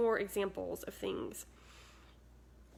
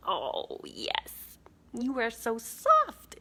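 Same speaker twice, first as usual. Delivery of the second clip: cooing to cat; much slower than usual. Real, not acted.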